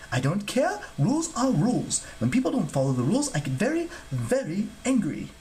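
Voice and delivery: high-pitched, officious rule-keeper; fussy, indignant god. Acted. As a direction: scold like a petty official. Fussy god insists on rules.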